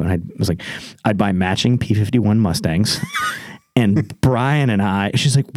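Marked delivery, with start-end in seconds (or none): 1.1-3.0 excited shout. Retold or imitated. Telling his wife his lottery dream, shouted with excitement.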